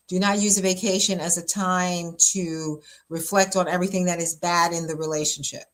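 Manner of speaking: each word laid down slowly for emphasis; slow, deliberate. Shown as a demonstration. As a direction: spell out "Do not use a vacation" slowly so it sinks in. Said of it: "Pastor G is gonna say this slowly".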